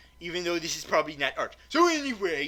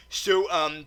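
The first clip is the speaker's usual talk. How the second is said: normal talking voice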